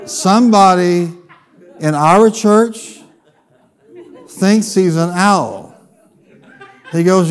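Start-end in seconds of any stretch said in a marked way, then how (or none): 0.1-5.8 slow, drawn-out disbelieving question; slow incredulous echo; stunned disbelief. Retold or imitated. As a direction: repeat it back slowly, as if you can't believe it. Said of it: "And I looked at him and I said".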